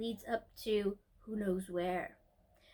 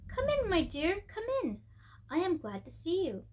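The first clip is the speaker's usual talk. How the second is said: lightly voiced old lady, higher and gentle; a kind old woman welcoming a child, a touch quavery; a hint of a sweet old lady inviting the girl in; sweet, old, shaky voice; 6 semitones higher than usual. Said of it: "said in a sweet but old and rather shaky voice".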